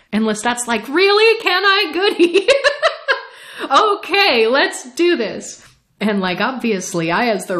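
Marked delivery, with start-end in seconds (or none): 0.9-5.6 higher, louder giddy mock delight; gleeful Lestat, played way over the top; mock excited. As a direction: ham up giddy eagerness. Lestat eagerly agreeing.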